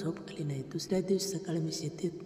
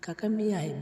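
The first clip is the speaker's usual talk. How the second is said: a mild call across the field; raising the voice to answer uncle in the dark; 3 semitones higher, 5 dB louder than usual. Retold or imitated. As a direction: call out to the old neighbour. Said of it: "त्यांना हाक मारली".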